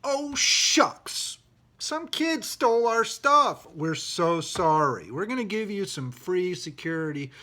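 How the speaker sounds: high, slow, hammed-up sheepish apology; the agency mocked as a sheepish kid, slow and high. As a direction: play it as a fake, sing-song sorry. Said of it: "came out and said".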